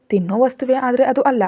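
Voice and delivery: lightly voiced kid, teasing; playful little girl. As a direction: daughter teasing mum over the surprise, lightly childlike. Child keeps the guessing game going.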